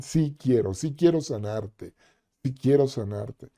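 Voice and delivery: soft, tender reassurance. Acted. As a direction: speak it gently as Jesus would. Voicing Jesus' loving reply.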